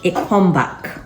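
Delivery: Jamaican lilt rising on now; a hint of Jamaican patois; light Jamaican lilt; Jamaican accent. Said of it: "my Jamaican accent".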